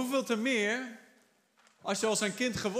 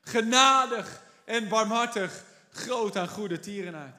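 God proclaiming; 5 dB louder than usual. Retold or imitated. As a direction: announce it with full force as God. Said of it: "En hij zei".

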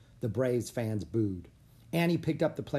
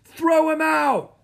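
very high, loud drawn-out yell; slow, hostile crowd shout; another heckler; 11 dB louder, slower than usual. A narrator's reading. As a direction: bellow it from the stands. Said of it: "said another".

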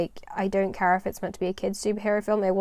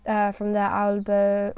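put-on slow, accidental French accent on "uh, from their album"; slipping into French accent; slower than usual. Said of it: "that's going French accent there".

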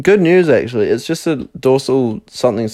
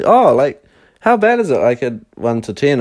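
nonchalant; 4 semitones higher than usual. Retold or imitated. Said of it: "very nonchalantly".

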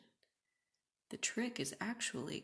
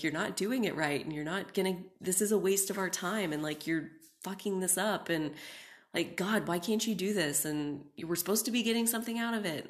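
mean self-talk; 5 dB louder than usual. Retold or imitated. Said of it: "and be like".

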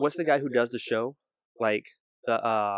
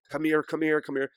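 mildly frantic, repeated summons, higher pitched; imitated panic; 4 semitones higher than usual. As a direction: imitate a freaked-out mom calling for help. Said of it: "she's freaking out".

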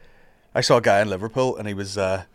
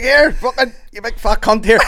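mock shout; 9 semitones higher, 5 dB louder than usual. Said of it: "He was like".

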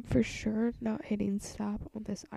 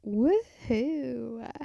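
silly cheer; 5 dB louder than usual. Pretend. Silly cheering to herself while recording.

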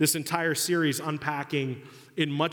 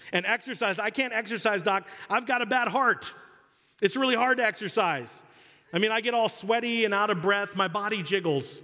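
higher, whining excuses; hammed-up higher whine of a reluctant patient; whiny patient; 5 semitones higher than usual. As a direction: whine like a lazy patient dodging the gym.

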